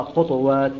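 خطوات, the ط held still without a vowel; sukun on the ta. Shown as a demonstration. Teacher showing Qalun's reading, خطوات with a still ط. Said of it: "حيث أسكن الطاء يقرأها".

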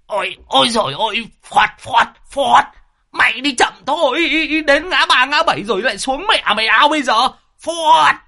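put-on high, panicked old man's cries; frantic high yelling; terrified shriek. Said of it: "tái cả mặt rú lên".

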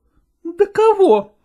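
pointed, suspicious questioning; insistent probing. A narrator's reading. Wife interrogating her husband about supporters, demanding. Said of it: "допытывалась Копровская".

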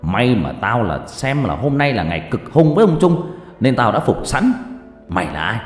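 scolding shout. Acted. Geomancer shouts at the possessed girl to confess. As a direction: bark at the demon to confess. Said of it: "mà quát lên".

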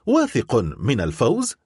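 incredulous echo, rising at the end; surprised. Acted. Bicamp echoes the count's boast, mildly surprised. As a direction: repeat "واثق من الفوز؟" in mild disbelief. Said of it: "وقال بدهشة".

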